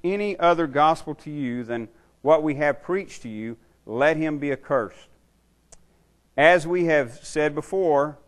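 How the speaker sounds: slow, weighted Bible reading; solemn public reading of scripture; emphatic scripture reading. Acted. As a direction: read the verse out deliberately, stressing key words. Reads scripture aloud.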